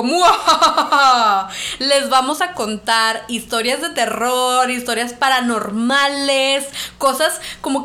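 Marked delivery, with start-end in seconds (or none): 0.0-1.5 slow evil cackle through laughter; villain laugh. Pretend.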